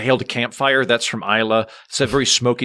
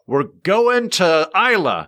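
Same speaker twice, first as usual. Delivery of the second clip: slow, raised, drawn-out announcement; excited announcement; 6 semitones higher, slower than usual. Retold or imitated. Nephew phones his adopted Scottish uncle, excited announcement. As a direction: announce the trip with relish, stretching it out.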